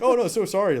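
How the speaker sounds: high, loud flustered apology; imitating an over-the-top sorry; retold apology. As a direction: act out investors hastily apologizing. Investors' apology acted after outburst.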